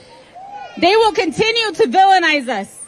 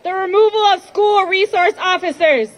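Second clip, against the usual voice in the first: shouting. Real, not acted. Rally speaker shouting demands.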